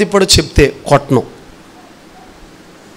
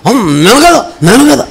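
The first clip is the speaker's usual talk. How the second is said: feigned innocence; 4 semitones higher than usual. Retold or imitated. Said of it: "మొఖంలో ఇంకా feelings పెట్టేసి".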